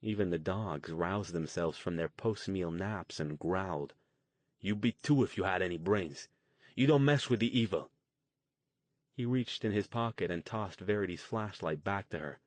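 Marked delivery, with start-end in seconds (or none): 4.6-7.9 almost yelling. Acted. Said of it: "Luke was almost yelling now".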